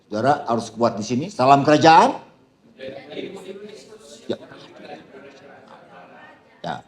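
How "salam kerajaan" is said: called greeting. Shown as a demonstration. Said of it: "Biar lebih kencang lagi".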